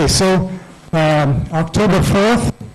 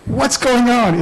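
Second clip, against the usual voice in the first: high, confused question; bewildered; 8 semitones higher, slower than usual. Retold or imitated. Scientist getting congratulations before the announcement, high and bewildered. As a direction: ask it pitched up, completely lost. More unexplained congratulations arrive.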